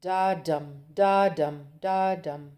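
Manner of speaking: da dum sung out as weak then strong beats, three times; iambic beat. Shown as a demonstration. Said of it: "the beat is".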